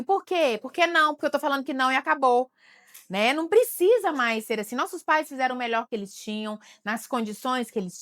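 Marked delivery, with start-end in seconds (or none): 0.0-2.5 put-on strict old-school parent. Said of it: "eu lembro que falava assim".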